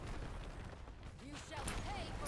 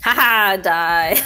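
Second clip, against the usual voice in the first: unhinged villain; 3 semitones lower, slower than usual. Acted. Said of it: "That's my maniacal laugh".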